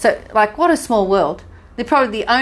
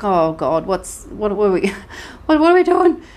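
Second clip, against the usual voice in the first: retold panic. Wife retelling her confusion on the airport train, mock panic. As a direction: play the lost tourist's "what are we doing", breaking into a laugh.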